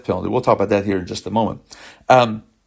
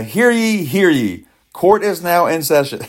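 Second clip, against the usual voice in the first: mock court crier, pitched up; grand rich voice; 5 semitones higher than usual. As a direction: announce it like a herald opening court. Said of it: "let's jump into the courtroom".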